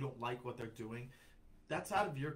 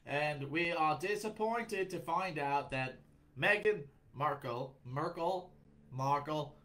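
slow, put-on British news anchor; mock British newsreader; 5 dB louder, slower than usual. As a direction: read the evening news in a hammy British accent. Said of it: "let's pretend we're in Great Britain".

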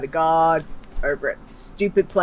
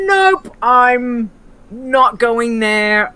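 slow, louder flat refusal; firm refusal; 4 semitones higher, 5 dB louder, much slower than usual. Retold or imitated. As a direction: drag out a firm no to the zone. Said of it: "just gone".

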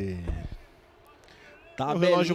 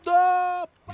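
explosive goal commentary; 11 semitones higher, 5 dB louder than usual. Real, not acted. Goal call.

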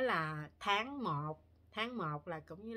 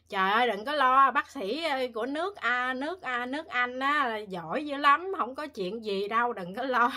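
loud, higher, hammed-up comforting husband; loud reassuring husband; 5 semitones higher, 11 dB louder than usual. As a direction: imitate the husband calming his crying wife, loudly. Husband reassuring her retold.

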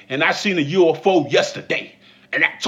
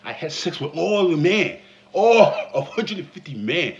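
a hint of a chesty confident woman; slightly lowered boastful woman; lightly voiced bold woman; 3 semitones lower, 3 dB louder than usual. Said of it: "testosterone built in her chest when she said".

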